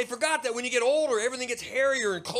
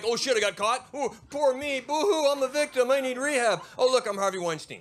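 mock whiny victim; 4 semitones higher, 4 dB louder than usual. Mocking whining self-pity.

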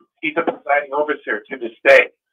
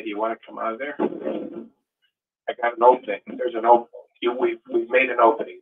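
gentle invitation; 3 semitones lower, 3 dB quieter than usual. Retold or imitated. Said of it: "and say".

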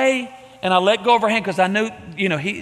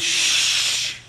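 tender hush. Retold or imitated. Father hushing the son.

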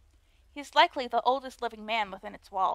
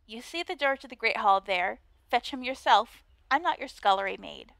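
put-on Valley Girl voice. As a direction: play the snooty mean girl, Valley Girl style. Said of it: "a Valley Girl voice".

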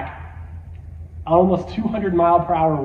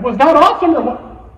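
loud, rising excited question; higher-pitched mock enthusiasm; imitating thrilled dad; 6 semitones higher, 6 dB louder than usual. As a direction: crow it like an oblivious, delighted dad. Acting dad thrilled after the ride.

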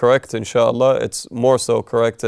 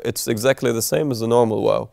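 ordinary talk

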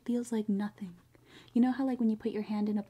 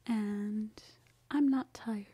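whispering. Real, not acted. Late night whispering.

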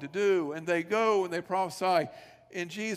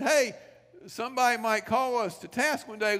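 higher, louder acted call to companions; rallying the others; 5 semitones higher, 3 dB louder than usual. Shepherd urging fellow shepherds to go and see, eagerly rallying. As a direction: voice an eager shepherd getting the group's attention.

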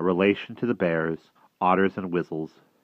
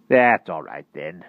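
wizard voice; 6 dB louder, slower than usual. A narrator's reading. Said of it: "said Merlin".

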